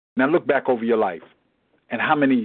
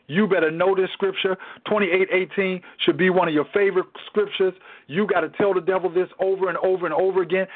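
higher-pitched, driving sermon delivery; emphatic preaching; 6 semitones higher than usual. Real, not acted. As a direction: preach it with punched key words and pauses. Preaches to listeners.

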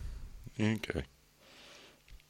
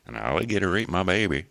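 higher, badly faked American accent; attempted American accent; 4 semitones higher than usual. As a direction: have another clumsy go at American. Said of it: "I still ain't got it right".

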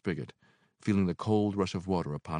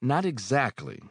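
stammering; 9 semitones higher, 5 dB louder, slower than usual. Acted. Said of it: "I stammered".

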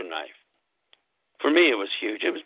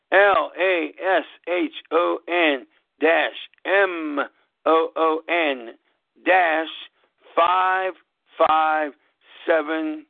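slow spelling out; 3 semitones higher, much slower than usual. Shown as a demonstration. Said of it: "Now, how does it sound?".

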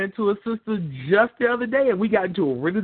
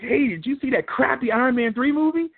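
blurted confession; 8 semitones higher than usual. Acted. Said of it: "Did I say that out loud?".

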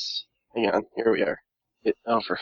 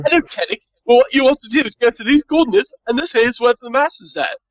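simple-minded servitor; 8 semitones higher than usual. Acted. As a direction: give directions in a raised, put-on voice. Servitor gives visitor directions.

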